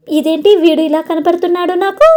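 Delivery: put-on girl crying out at the face in her notes; mock alarmed shout. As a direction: call it out in baffled alarm. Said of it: "అని గట్టిగా అరుస్తుంది".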